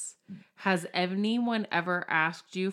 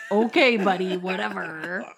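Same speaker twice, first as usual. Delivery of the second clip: teasing laugh; 5 dB louder than usual. Real, not acted. Teasing friend.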